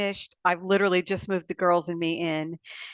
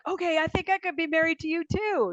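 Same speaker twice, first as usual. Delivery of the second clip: quoting husband; 10 semitones higher than usual. Retold or imitated. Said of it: "he was like".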